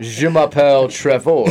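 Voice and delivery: slow, mock French accent; hammy fake French accent. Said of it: "Try to speak French".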